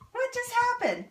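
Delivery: high, startled question; a real jolt of surprise as the blender quits; surprised. Real, not acted. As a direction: caught off guard, voice jumping up. Blender dies on camera.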